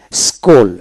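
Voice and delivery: স্কুল pronounced skul, no separate c; silent-letter pronunciation. Shown as a demonstration. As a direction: model স্কুল clearly for learners. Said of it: "এখানে সি উচ্চারণ হবে না".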